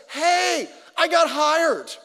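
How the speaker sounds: buddy bursting in with the good news; excited news. Retold or imitated. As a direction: crow the news like the buddy did. Buddy's voice announcing job.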